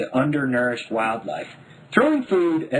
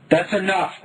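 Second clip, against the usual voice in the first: stern; 7 semitones higher, 5 dB louder than usual. A narrator's reading. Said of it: "Mom said".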